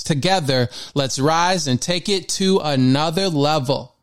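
steady, earnest mantra recital; affirmation reading. Acted. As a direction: read the mantra out with conviction. Reads the daily mantra.

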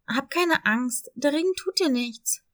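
put-on a gently comforting young dog; reassuring puppy. Dog comforts scared cat.

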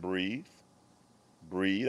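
soft and low, slowly saying breathe; calm coaching voice. Retold or imitated. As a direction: soothe a crying daughter, quietly. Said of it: "the calmest you had ever heard me".

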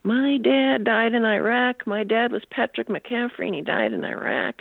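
a touch of tearful upset, retold; retold tearful plea. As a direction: lightly act a distressed son on the phone, drawn-out opening. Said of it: "he's crying on the phone".

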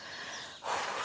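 long breathy exhale; sigh. Acted. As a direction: let out a long, soft sigh. Walking the long way round.

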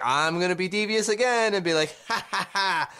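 lightly mocked scheming boss with "ha, ha, ha"; Charles Wang. Co-host imagining the owner's devious contract clause, lightly mocking villain. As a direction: voice a hint of a gloating villain. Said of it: "Charles Wang was like".

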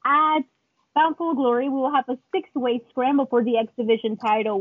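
mock praise, sarcasm dripping; fake-congratulate him; sarcastic. Boss sarcastically praising the champion, high mocking. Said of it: "Very sarcastic".

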